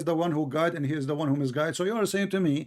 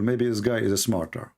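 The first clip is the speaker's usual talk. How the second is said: rough, tired voice; hoarse from talking; 6 semitones lower than usual. Real, not acted. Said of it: "Even though I'm losing my voice".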